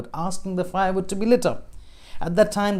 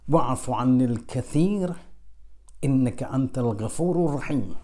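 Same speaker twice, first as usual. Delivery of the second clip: recited prayer; 2 semitones lower than usual. Acted. Prophet teaches the dua.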